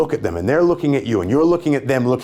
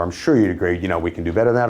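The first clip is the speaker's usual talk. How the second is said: low, assured assertion falling at "better than that"; downward inflection; 4 semitones lower, faster than usual. Shown as a demonstration. Salesman assuring the customer they agree, with downward inflection. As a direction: assert it, letting "that" drop. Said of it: "I'm saying it with a downward inflection".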